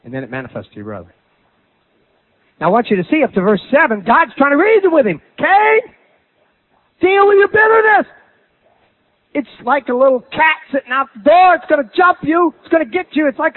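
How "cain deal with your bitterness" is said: raised high, pleading call to Cain; God urging him, pitched well up; God pleading with Cain to master his bitterness. Acted. Preacher voices God reasoning with Cain.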